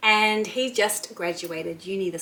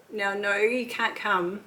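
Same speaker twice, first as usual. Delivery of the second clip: imitating son refusing; 2 semitones higher, slower than usual. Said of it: "I'm not allowed to go".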